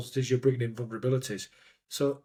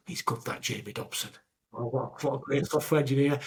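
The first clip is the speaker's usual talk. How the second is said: put-on Yorkshire accent; 4 dB quieter than usual. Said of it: "Yorkshire accent".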